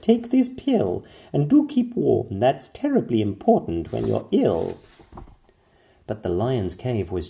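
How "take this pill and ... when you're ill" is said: higher, louder caring princess doctor; Pearl advising. A narrator's reading. Pearl advising the sick lion, caring. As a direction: give firm kind advice. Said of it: "and Pearl said".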